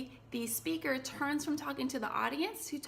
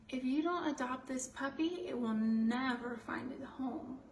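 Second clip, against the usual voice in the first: sad appeal. Shown as a demonstration. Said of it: "that is making you feel sad".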